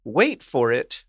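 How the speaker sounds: slow, drawn-out build to a reveal; suspenseful reveal. Real, not acted. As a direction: draw it out, teasing the big reveal.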